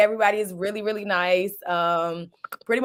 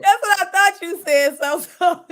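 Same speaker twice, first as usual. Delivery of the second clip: higher, louder laughing reply; 8 semitones higher, 5 dB louder than usual. Real, not acted. Co-host laughing at the misheard phrase. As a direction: giggle it out.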